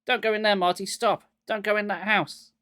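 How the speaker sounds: calling out loud and high after him; urgent yell to a friend running off; frantic calling. A narrator's reading. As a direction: shout a warning across the distance. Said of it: "frantically calling after Marty".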